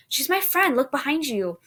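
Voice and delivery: high, loud pleading; near tears. A narrator's reading. Mary begging the servant to believe her, near tears. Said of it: "sounding like she's about to cry".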